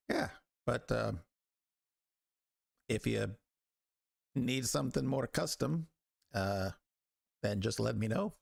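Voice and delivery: lilting, casual tradesman voice; village smith making a pitch. Acted. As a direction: offer your wares as an easygoing smith. Game master plays the smith.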